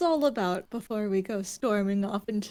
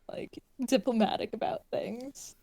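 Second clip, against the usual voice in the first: whispering; 6 dB quieter than usual. Real, not acted. Whispered aside.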